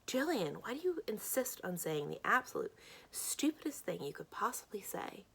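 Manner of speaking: exasperated, rising on the name; fed up with a friend's tactless remarks; mildly exasperated telling-off. Acted. Acted text quarrel with Jillian.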